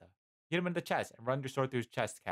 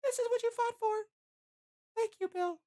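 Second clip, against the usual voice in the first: whispering voice; 3 dB louder than usual. A narrator's reading. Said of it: "a voice whisper in your ear".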